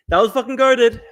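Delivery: fired-up shout of approval; hyped repeat. Real, not acted. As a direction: shout the praise. Repeating his own praise hyped.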